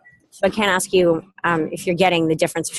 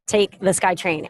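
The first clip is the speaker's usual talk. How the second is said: husband's short, unbothered instruction; flat matter-of-fact reply; curt and flat; slower than usual. Retold or imitated. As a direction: say it like it settles everything. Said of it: "That's all he said".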